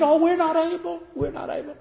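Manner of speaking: high whining mock of the people. Preacher mocking the frightened Israelites, high and whiny. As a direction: whine it like a scared crowd. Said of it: "They said".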